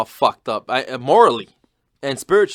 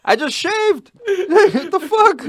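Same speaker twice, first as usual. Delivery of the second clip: laughing; 12 semitones higher, much slower than usual. Real, not acted. Laughing at the roast.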